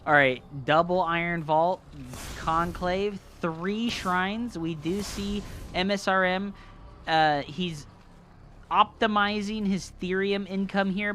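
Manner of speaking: live play-by-play game commentary; esports caster. Acted. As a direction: call the match like a caster. Casting the match.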